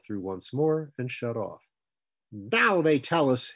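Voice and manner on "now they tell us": loud, high, drawn-out outburst; exasperated explosion. A narrator's reading. Woman hearing a late traffic warning, exploding. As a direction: explode slowly and loudly in exasperation. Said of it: "Hazel exploded".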